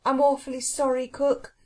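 mildly contrite, sweet and polite; gentle apology. A narrator's reading. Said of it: "said Anthea gently".

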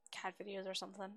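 normal talking voice

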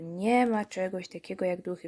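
sarcastic echo, "nie" leaned on; mildly mocking repetition; mock voice of reason. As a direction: repeat it like a smug know-it-all. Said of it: "No i wreszcie włączył się głos rozsądku".

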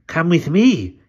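slow, creepy hunchback servant; hunchback assistant. A narrator's reading. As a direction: speak like a sly old hunchback.

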